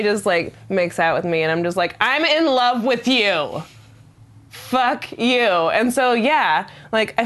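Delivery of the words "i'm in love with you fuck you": high, slow, hammed-up love declaration; mock swooning. She recalls making out with him, high mock swooning. Retold swooning after he kisses her.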